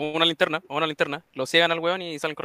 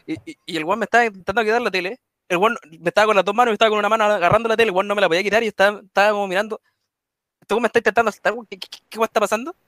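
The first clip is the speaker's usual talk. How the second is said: getting louder and more worked up while telling it; excited retelling; 3 semitones higher, 3 dB louder, faster than usual. Retold or imitated. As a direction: tell it faster and faster, all fired up. Retold robbery, rising excitement.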